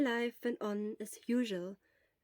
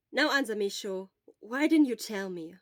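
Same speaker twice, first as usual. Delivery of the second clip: insistent; 6 dB louder than usual. Acted. Friend pressing for an answer.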